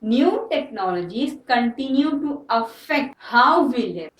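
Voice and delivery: very slow, word by word; slow dictation. Shown as a demonstration. Teacher dictating the example sentence, very slow. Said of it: "ठीक है".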